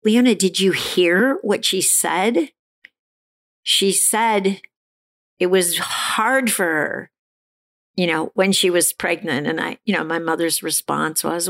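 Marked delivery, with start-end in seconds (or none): 0.0-9.5 father yelling back. Retold or imitated. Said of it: "yelled back and said".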